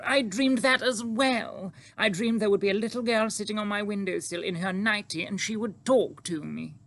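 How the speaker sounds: high, astonished queen, starting loud and easing slightly; excited royal outburst; crying out. Acted. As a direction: cry out in amazement, pitched high. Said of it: "the Queen cried out".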